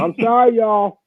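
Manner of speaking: high, giggly sorry; laughing apology. Real, not acted.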